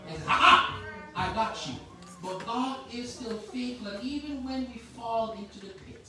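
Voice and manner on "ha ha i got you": mocking taunt. Enemy taunting the fallen.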